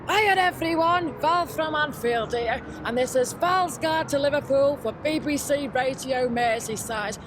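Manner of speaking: slow, bright radio host greeting; radio presenter intro. Acted. Val opening her radio guide for listeners, upbeat presenter voice. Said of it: "Just gotta do my intro".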